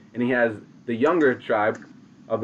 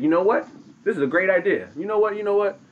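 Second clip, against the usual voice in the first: gleeful chief; 6 semitones higher, faster than usual. Retold or imitated. Tadaho delighted by idea.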